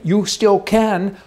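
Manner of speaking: grandly granting a privilege, mockingly; mock magnanimous. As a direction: draw it out like a generous favor. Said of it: "say it like it's a real privilege".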